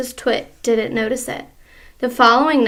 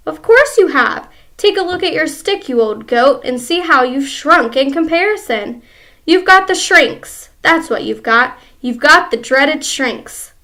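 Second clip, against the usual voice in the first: taunting husband; 3 semitones higher, 5 dB louder than usual. Acted. Mister Twit taunting his wife.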